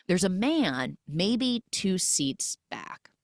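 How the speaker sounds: slow, breathy suspense whisper. Acted. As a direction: whisper it like a secret. Suspense build in theater.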